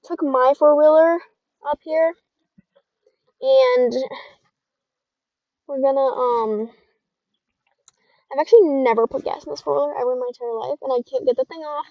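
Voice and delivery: muffled voice under a helmet. Real, not acted. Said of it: "like, muffled almost".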